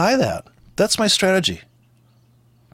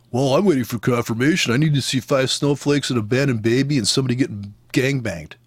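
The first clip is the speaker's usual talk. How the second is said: mocking hesitant trader. Mocking traders who wait for confirmation.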